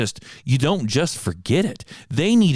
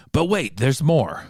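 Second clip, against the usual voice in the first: infomercial; 4 semitones higher than usual. Retold or imitated. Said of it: "It's like an infomercial".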